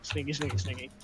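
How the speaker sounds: hushed sneaky sing-song; sneaky whisper. Pretend.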